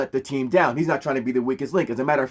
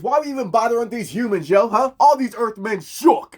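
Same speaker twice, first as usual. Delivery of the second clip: scornful Katma; 8 semitones higher than usual. Retold or imitated. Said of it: "Katma told the Guardians".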